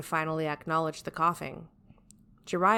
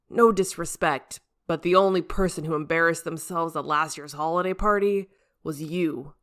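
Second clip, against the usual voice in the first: slightly louder, cheeky dig; teasing jab; 5 dB louder than usual. Acted. Asuma teasing the captain about last year, mild cheeky jab. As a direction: needle the captain lightly.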